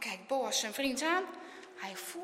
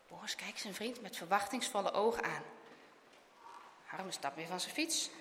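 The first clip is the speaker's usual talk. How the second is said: ordinary delivery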